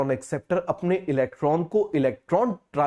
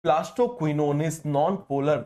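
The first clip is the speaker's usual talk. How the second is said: very slow, word by word; slow and even, as if for notes; slow dictation; much slower than usual. Shown as a demonstration. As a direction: dictate it slowly for copying. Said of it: "आप जानते हो कि plastoquinone क्या होता है".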